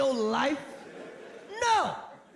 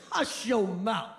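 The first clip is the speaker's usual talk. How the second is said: mock scolding; 5 semitones lower, slower than usual.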